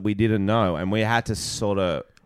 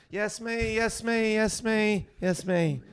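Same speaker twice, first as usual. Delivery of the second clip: high, soft eager little voice; a keen buyer calling out; eager squeaky customer; 12 semitones higher, 5 dB quieter, slower than usual. Acted. Second townsperson answering the seller, high eager squeak.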